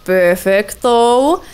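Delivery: slow, savoured perfecto; smug mock-Italian flourish; drawn-out perfecto. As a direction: stretch it out, pleased with yourself. Pleased with colony setup.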